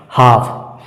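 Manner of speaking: हाफ said as "haaf", no l; correct pronunciation. Shown as a demonstration. Teacher to students on silent l, clear हाफ. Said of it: "इसका सही उच्चारण हाफ होगा".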